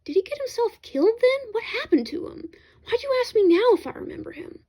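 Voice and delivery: pressing for answers, curiosity aroused; quick questions. Acted. Lawrence pressing the narrator about Celliers, quick eager questions. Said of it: "Lawrence questioned quickly".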